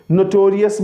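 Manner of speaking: नोटोरियस as people usually say it; the common नोटोरियस; common wrong way. Shown as a demonstration. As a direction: give the popular version of नोटोरियस. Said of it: "अब लोग क्या करते हैं जी".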